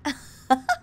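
a loud, high burst of laughter; sudden loud cackle. Real, not acted.

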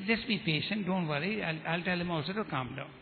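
gently placating, voice eased down; calming. Retold or imitated. Young Muslim placates the evangelist for his friend, calming. Young man urging patience.

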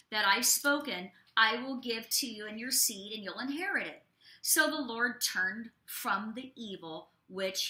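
measured, deliberate Bible reading; scripture reading. Acted. Pastor reading Exodus to listeners, measured scripture reading. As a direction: read the verses out with weight.

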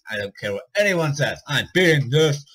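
panting between words after a chase; breathless, still catching air; out of breath. Real, not acted. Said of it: "I'm way out of breath".

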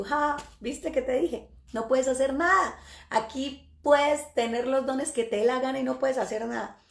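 mild scornful crowing; retold mocking spirit. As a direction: lightly act a spirit rubbing it in. Spirit laughs and taunts.

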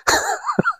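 high, breathy little giggle. Real, not acted. Telling viewers about the neighbor, a high giggle. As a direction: laugh at the neighbor's reaction. Laugh after neighbor quote.

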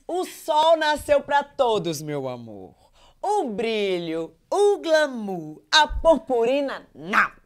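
Thaís Teixeira. Acted. Contestant mimicking a catchphrase with its intonation, long drawn-out words. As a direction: stretch each phrase in a mimicked sing-out. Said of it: "incorporar a Thaís Teixeira".

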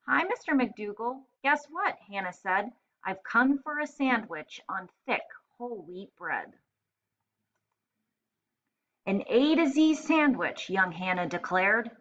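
lively read-aloud with voiced characters; story narration. Teacher reading the sandwich story to first graders, animated narration. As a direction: play up the rhyme and the characters for young listeners.

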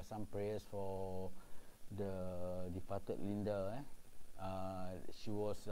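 slow, soft and sombre; quiet respectful tone; solemn. Real, not acted. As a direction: ask for prayers gently. Solemn request for prayers.

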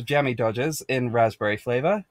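amateur mock British accent; jokey British accent, rising at the end; badly put-on accent. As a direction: have a clumsy go at British. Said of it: "put on the accent that I'm not good at".

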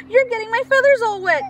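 high, loud squawk; high squawking complaint; quetzal squawks. Acted. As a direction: fuss at the monkey about wet feathers. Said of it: "Quetzal squawks".

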